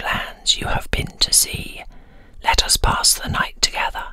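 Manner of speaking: put-on a whispered, slightly deepened old man greeting his guest; lightly voiced lonely old winter spirit, welcoming.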